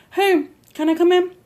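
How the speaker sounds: bright high neighbor voice calling through the door; lightly voiced friendly neighbor knocking; sweet neighbor voice.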